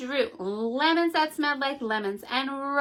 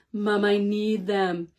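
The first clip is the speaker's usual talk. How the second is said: put-on begging kid; 4 semitones lower, slower than usual. Child begging mother.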